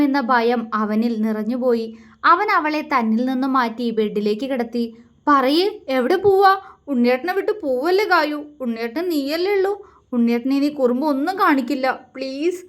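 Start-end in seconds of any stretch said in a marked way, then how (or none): 5.3-12.6 higher, begging voice close to tears; tearful pleading. Acted. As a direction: plead with her not to leave, teary. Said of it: "കണ്ണു നിറച്ചുകൊണ്ട് അവളോട് കെഞ്ചിക്കൊണ്ട് പറഞ്ഞു". (കണ്ണീരോടെ ഉയർന്ന സ്വരത്തിൽ കെഞ്ചൽ)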